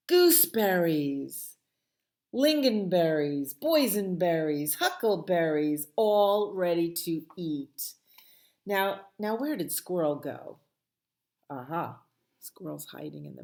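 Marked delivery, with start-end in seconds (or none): 0.1-7.9 hungry relish. Acted. Bear lists berries hungrily.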